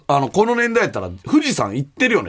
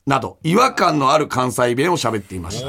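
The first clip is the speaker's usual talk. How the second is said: measured radio mail reading; listener letter read-out; 4 semitones lower than usual. Acted. Host reading a listener's letter about Cotton's radio show, measured read-aloud. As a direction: read the letter out evenly to the audience.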